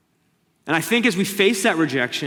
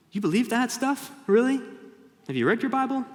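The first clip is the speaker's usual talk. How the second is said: mocking sceptic; 9 semitones higher than usual.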